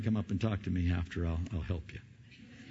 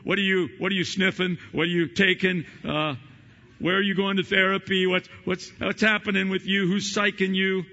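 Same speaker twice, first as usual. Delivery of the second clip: loud, high, mocking disbelief; mock incredulous shouting; 10 semitones higher, 8 dB louder than usual. Pastor voicing people who question a new believer, loud mock disbelief. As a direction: fire the nosy questions at them, high and loud. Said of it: "they wonder".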